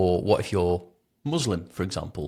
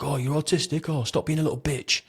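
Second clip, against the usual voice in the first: higher-pitched jeering imitation; mock taunt in a raised pitch; mocking police officer; 6 semitones higher than usual. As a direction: mimic a sneering cop, pitched well up.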